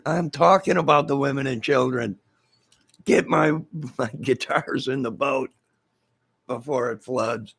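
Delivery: comic stubborn order; mock selfish captain. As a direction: insist on the guitars first. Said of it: "mock rescue dialogue".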